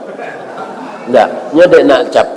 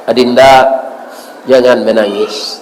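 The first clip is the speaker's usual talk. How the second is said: comforting voice; 4 semitones lower than usual. Retold or imitated. Doctor's voice from behind to a weeping patient, gently soothing. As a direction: lightly play a tender comforter. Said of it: "Atau dengar suara di belakang".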